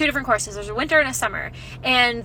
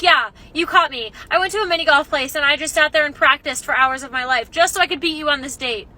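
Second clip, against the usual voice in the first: sarcastic confession; 3 dB louder than usual. Retold or imitated. Sarcastic mock confession to her date.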